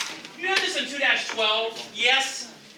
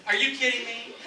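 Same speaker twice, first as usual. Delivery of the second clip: higher pitch breaking into a laugh; flattered disbelief; 5 semitones higher, 4 dB quieter than usual. Acted. Teacher reacting to being called handsome, flattered and laughing. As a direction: laugh off the compliment, pleased. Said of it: "You're handsome".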